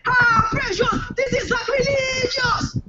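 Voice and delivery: very high sobbing shriek, the end drawn out slowly; over-the-top tearful wail; crying scream. Retold or imitated. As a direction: howl the betrayal through tears. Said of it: "I screamed".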